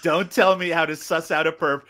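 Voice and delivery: slowed, lightly imitated line reading; a hint of a veteran actor's delivery; Malcolm McDowell. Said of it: "read by Malcolm McDowell".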